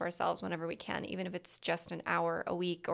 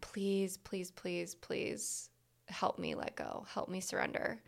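soft pleading; 7 dB quieter than usual. Retold or imitated. Retold plea to the universe in the bath.

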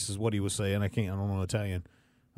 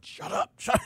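retold dad's shut-up. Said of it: "turn to her going".

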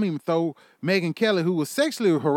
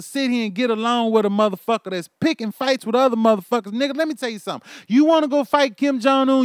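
higher and louder angry shouting; furious rant; 5 semitones higher, 4 dB louder than usual. Real, not acted. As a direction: yell at them, fed up and furious.

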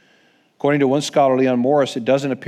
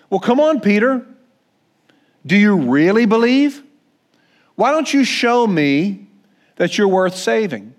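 demanding Jesus; 5 semitones higher than usual. Pretend. Imagined Jesus taunting sinking Peter, a stern mock challenge. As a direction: lean in, daring Peter to prove himself. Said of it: "That's not what Jesus does".

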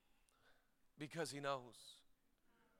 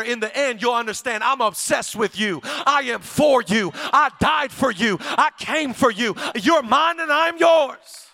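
Jesus to his daughter; 3 semitones higher, 5 dB louder than usual. Acted. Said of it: "Jesus speaks to the woman".

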